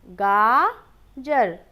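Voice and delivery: गाजर drawn out with a falling end; slow firm answer. Shown as a demonstration. Teacher confirming the right word, slow. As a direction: answer गाजर slowly and firmly. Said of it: "कौन सा सही शब्द था?".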